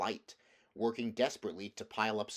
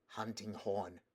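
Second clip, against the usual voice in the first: softly whispered answer; hushed, afraid of being heard; 6 dB quieter, slower than usual. Acted. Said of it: "whispered Scrub".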